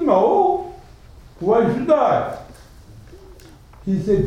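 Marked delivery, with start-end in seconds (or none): 0.0-2.4 defiant peasant. Retold or imitated. Peasant answers the Sultan back.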